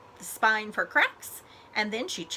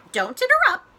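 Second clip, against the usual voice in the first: sharp, louder and higher snap; crackled; 10 semitones higher, 8 dB louder than usual. A narrator's reading. Dragon snapping at Molly for interrupting, loud. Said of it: "Miss Scales crackled".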